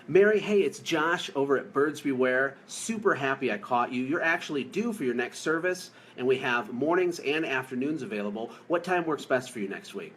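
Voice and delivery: lightly voiced upbeat confident call; breezy, sure-footed phone pitch; confident caller. Shown as a demonstration. Owner showing the right call to a client, lightly confident. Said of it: "It's like".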